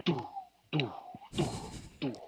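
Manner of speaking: spaced-out "doo" thuds; imitated giant. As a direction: separate "doo" beats with pauses.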